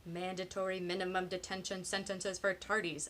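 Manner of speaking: every word from "Mandatory" to "tardies" given its own beat; each word emphasized. A narrator's reading. Alfie demands "Mandatory minimum detention", each word hammered. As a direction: punch each word like a fist on palm. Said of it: "emphasizing each word by banging his fist".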